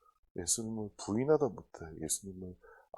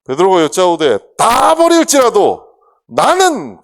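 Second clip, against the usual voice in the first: bold vow; 9 semitones higher, 17 dB louder, slower than usual. Acted. Reading Peter's vow.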